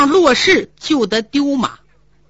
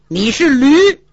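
spiteful insult; 3 semitones higher, 5 dB louder, slower than usual. Acted. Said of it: "看着胡大海狠狠地说了一声".

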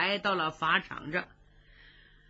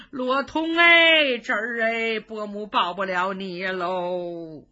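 wailing lament; slower than usual. Acted. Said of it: "一边哭".

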